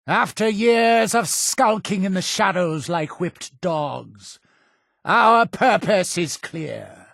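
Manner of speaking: high, ringing sermon delivery; rally the faithful, building to a shout; fiery preaching. Acted. Cult leader rousing followers against those killing missionaries, fiery preaching.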